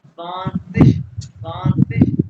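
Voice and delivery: "स्वांसिश" repeated with a strong hissed sh ending. Shown as a demonstration. Teacher explaining the IG ending, "स्वांसिश" finishing in a strong sh. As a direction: turn the last sound of "स्वांसिश" into sh. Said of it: "आई जी को शीन के बाद शी".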